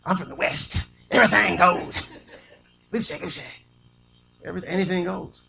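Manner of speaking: lightly mocked easygoing Westerner; loose Westerner. Someone from out West saying anything goes, loosely mocked. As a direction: toss it off loose and playful. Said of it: "just loose".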